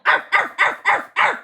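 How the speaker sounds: mock barking; dog barks. A narrator's reading. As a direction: yap like an excited puppy.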